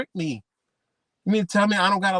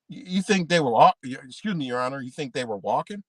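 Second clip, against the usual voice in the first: mock polite to judge; 4 semitones lower than usual. Arguing with a judge in court, lightly mock polite. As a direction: correct yourself before the judge.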